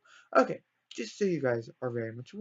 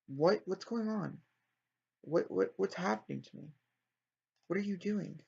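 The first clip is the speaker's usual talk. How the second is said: mildly bewildered questioning; lightly acted puzzlement; confused; 3 semitones higher than usual. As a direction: act out mild confusion, stumbling over the first words. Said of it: "Saint Nick is extremely confused".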